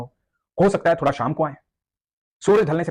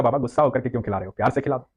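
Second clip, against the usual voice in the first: put-on gentle boy. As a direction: coax him kindly. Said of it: "बच्चा बोला".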